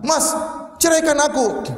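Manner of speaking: high-pitched challenge from a provoking wife; defiant wife. Acted. Wife challenging her husband to divorce her, defiant. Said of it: "Apalagi istrinya nantang".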